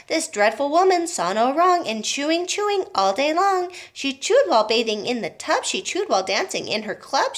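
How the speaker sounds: lively, bouncy recitation; rhyming verse. A narrator's reading. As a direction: read the song like a cheeky poem. Oompa Loompa song read.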